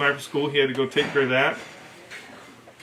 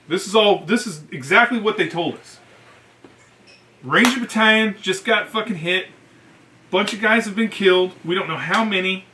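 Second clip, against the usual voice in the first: urgent news; 4 semitones higher than usual. Retold or imitated. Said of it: "they're like".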